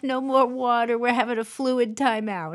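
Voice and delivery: hammed-up announcer call on a steady high pitch; mock announcement. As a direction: play at calling a cutoff to the room. Mock announcing a water cutoff.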